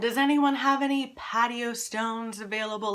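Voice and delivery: a gently mocking take on a fussy neighbor complaining about dog poop; lightly hammed-up busybody; nagging neighbor post. Mimicking neighborhood Facebook posts.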